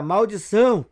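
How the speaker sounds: loud furious curse; angry shout. A narrator's reading. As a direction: bellow it in frustration at the door. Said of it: "Tex grita". (grito furioso de praga)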